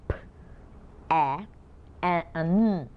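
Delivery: p, a, n said sound by sound; sounding out words. Shown as a demonstration. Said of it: "what's that? Pan".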